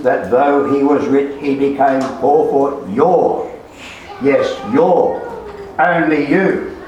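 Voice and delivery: forceful sermon, hammering "your" and "you"; emphatic preaching. Real, not acted. Preacher tells congregation it was for them, emphatic preaching. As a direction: press each pronoun home to the listeners.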